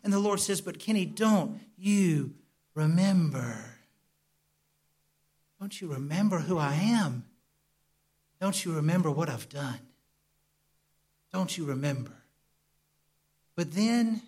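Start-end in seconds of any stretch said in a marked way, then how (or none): 0.6-12.2 tender reassurance. Retold or imitated. Voicing the Lord tenderly.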